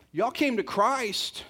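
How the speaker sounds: slow emphatic Paul. Acted. Paul addressing the church.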